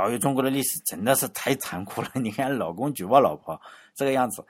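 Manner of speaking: half-laughing, lightly teasing; mock lament with a laugh. Scholar jokes about history, laughing lightly. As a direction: chuckle through the joke. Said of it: "但是你不能调侃说".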